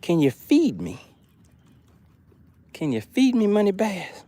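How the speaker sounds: playful high, soft fish voice; pretend hungry fish. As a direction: plead for food as a pretend fish. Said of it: "I think they said".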